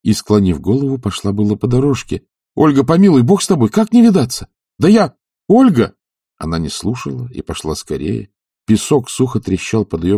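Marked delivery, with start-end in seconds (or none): 2.5-6.0 high, loud plea after her; a man begging the departing woman to stay; desperate pleading. Acted. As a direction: call her back in panic. Pleading as she walks away.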